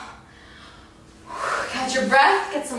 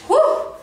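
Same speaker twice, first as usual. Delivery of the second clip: relieved whew; 13 semitones higher, 3 dB louder than usual. Real, not acted. Exhale after finishing exercise.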